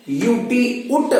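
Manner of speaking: उट spelled then stretched very slowly; slow sounding out. Shown as a demonstration. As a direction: say the letters, then draw out उट. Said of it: "teacher sounds out UT". (धीरे-धीरे उट बोलना)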